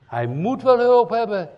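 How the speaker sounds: loud, high, urgent preaching; loud high preaching outburst. Acted. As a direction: push the voice up and out. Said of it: "nog harder schreeuwen".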